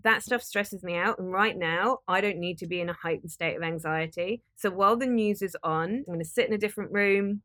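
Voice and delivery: calm, kindly spoken boundary; gentle, clear, kind. Shown as a demonstration. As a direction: explain it gently but firmly. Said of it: "very clearly and very kindly just say".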